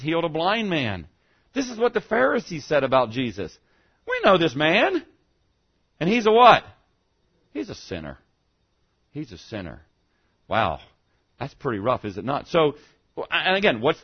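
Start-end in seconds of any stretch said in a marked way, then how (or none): 4.1-6.6 mock Pharisee accusation. Pharisees voiced mocking Jesus. 7.5-9.8 scornful verdict. Acted. Pharisees' verdict, dropped low.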